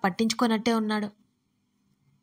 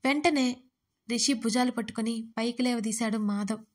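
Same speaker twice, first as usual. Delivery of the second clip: ordinary delivery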